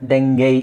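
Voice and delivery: ಡೆಂಗೈ as DENG-gay; the American form ಡೆಂಗೈ with "gay" ending; American pronunciation. Shown as a demonstration. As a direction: end ಡೆಂಗೈ on a long "ay". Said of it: "Americans ಇದನ್ನ".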